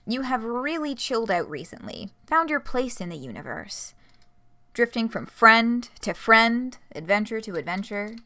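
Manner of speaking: lively storyteller reading with measured phrasing; read-aloud story narration; game master narration. Acted. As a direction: narrate it like an interactive story, leaning on key words.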